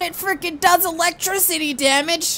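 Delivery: high, loud thrilled exclamations; excited amazement. Real, not acted. Gamer discovering his sword does electricity damage, high thrilled shouts. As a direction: gush about the new sword.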